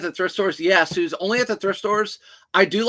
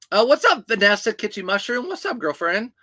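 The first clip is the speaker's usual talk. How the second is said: excited greeting; 4 semitones higher than usual. Real, not acted. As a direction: greet her like a best friend. Greeting a viewer in chat.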